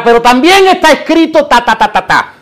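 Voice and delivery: high, mocking retort trailing into filler syllables; diablo. Devil answering Jesus with scripture, high mock retort. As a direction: fire back high, then rattle off the filler. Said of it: "el diablo viene para atrás".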